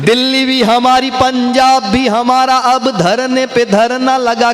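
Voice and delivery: slow, drawn-out poetic declamation; kavi sammelan recitation. Acted. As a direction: recite each line with relish, stretching the words. Recites satirical poem to audience. (मंच पर कविता पाठ का धीमा, खिंचा हुआ अंदाज़)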